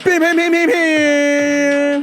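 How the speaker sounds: rhythmic, ridiculing rap imitation; punchy mock rap patter; mock wannabe rapper. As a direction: mimic an amateur rapper's hype chant. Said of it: "Like, who says".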